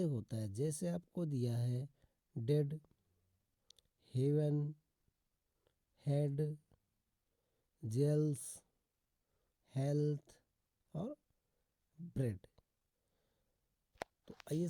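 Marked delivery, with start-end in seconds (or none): 2.4-12.5 "डेड, हेवन, हेड, जेल्स, हेल्थ, ब्रेड" one by one with an e vowel; spaced word list from "डेड" to "ब्रेड", clear e; short E pronunciation. Shown as a demonstration. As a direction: model each word alone, e sound as in "हेड". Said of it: "ईए का उच्चारण जो है ऐसे".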